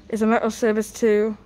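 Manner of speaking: speaking through a face mask; muffled voice behind a mask. Real, not acted. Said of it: "my voice sounds a bit more muffled".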